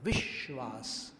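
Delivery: विश्वास with the व hitting the श्वास; विश्वास said deliberately; syllable-stress demo. Shown as a demonstration. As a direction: slowly, stress the blow of व on श्वास. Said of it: "टक्कर देते हुए बोला".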